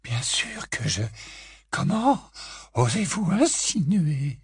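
high, slow, offended retort; indignant. A narrator's reading. Grey Lady indignant at Harry's hint, offended. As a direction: bristle at the insult. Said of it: "d'une voix enflammée".

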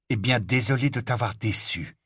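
even, controlled reply; very calm tone. Acted. Harry answers Ron's reproaches, very calm. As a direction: keep it calm and contained after the shouting. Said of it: "d'un ton très calme".

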